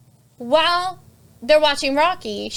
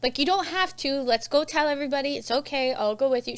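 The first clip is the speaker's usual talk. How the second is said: gentle reassurance; 3 semitones higher, 4 dB quieter than usual. Retold or imitated. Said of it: "Retta's like".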